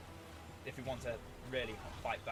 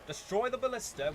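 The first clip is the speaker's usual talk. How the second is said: sharp frustrated yell; shouting orders; 10 semitones higher, 6 dB louder than usual. Real, not acted. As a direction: bark the order loudly. Yelling orders at units.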